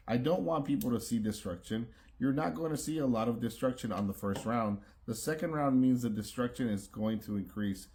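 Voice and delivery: words slurred by a retainer; wearing a retainer. Real, not acted. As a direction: talk around a retainer in your mouth. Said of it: "it's making my words sound a little funny".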